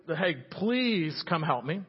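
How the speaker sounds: half-hearted shout with a drawn-out please; mock shout. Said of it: "The rich man shouted".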